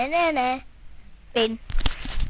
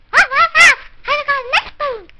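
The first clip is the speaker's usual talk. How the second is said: high dismayed cry; 12 semitones higher, 5 dB louder, slower than usual. Acted. Character cries out in dismay.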